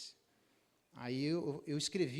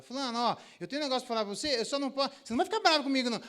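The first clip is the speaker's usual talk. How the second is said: much higher, louder wheedling wife voice; hammed-up teasing wife; teasing wife meme; 9 semitones higher, 10 dB louder, much faster than usual. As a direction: tease the husband with a secret. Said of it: "memes na internet".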